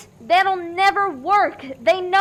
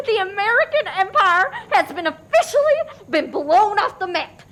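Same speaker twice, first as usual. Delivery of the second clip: manic laugh; 4 semitones higher than usual. Acted. Despairing Joy laughs madly.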